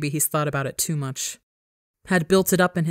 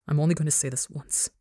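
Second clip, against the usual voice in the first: seething; 5 dB quieter, faster than usual. Acted. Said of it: "Ranbu seethes".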